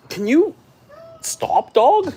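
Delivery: high sharp call to the dog. Real, not acted. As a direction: stop the dog, loud and high. Telling dog off mid-talk.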